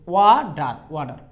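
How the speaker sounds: ওয়াডার with a quick ড for the t; American flap t. Shown as a demonstration. Teacher repeats "water" for students, flapped t. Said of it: "ডর মতো কিন্তু sound হয়েছে".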